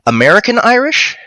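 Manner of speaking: rising, puzzled repeat of American Irish?; incredulous question. Real, not acted. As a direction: echo it back in real disbelief. Puzzled echo of a comment.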